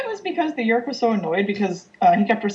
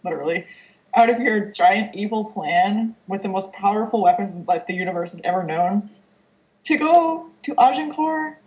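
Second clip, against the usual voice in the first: incredulous; 2 semitones higher than usual. Retold or imitated. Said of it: "Yeerks are, like".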